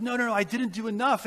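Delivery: insistent denial. Retold or imitated. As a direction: refuse their comfort, pressing each no. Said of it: "And Oscar's like".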